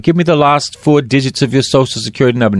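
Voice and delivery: fast, offhand official asking for digits; quick mock bureaucrat voice; mock clerk. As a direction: rattle it off like a bored office clerk.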